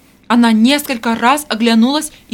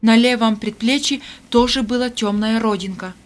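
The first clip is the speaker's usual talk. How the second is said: ordinary delivery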